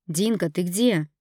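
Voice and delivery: loud, slow and urgent call; husband calling out his wife's name in alarm; near-shouted. Acted. Husband demanding where his wife is, loud and slow. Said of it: "чуть ли не проорал муж".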